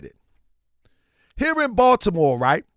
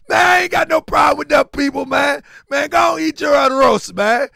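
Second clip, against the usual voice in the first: loud, higher-pitched dismissive rant; exasperated mock protest; 4 semitones higher, 4 dB louder than usual. Man brushing off rice eaters, mock exasperated protest. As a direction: wave them off loudly.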